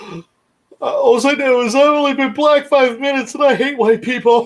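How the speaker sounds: put-on high sobbing kid voice, talking through gasps. Retelling a joke, the kid answering after being slapped: imitating a crying kid.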